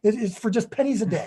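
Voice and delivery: laughing salesman patter; chipper 1950s ad. Acted. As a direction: pitch it through a laugh. Joking ad banter.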